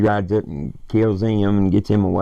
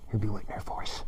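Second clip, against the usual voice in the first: repeated line, quieter; 13 dB quieter than usual. Retold or imitated. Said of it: "He's like".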